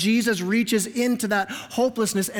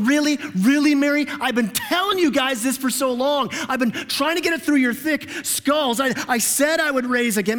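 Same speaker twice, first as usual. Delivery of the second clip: exasperated mock Jesus; 5 semitones higher than usual. Pretend Jesus scolding Mary for her weak faith, mock exasperated. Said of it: "Jesus will go".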